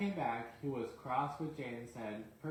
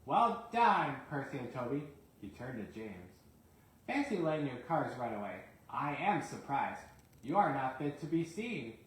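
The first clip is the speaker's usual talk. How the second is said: stern Fat Controller; 2 semitones higher, 4 dB louder than usual. Acted. Sir Topham praises and scolds.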